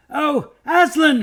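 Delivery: high, loud, drawn-out call; longing shout across the stream; joyful cry. Acted. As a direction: cry out to the lion, slow. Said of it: "he cried".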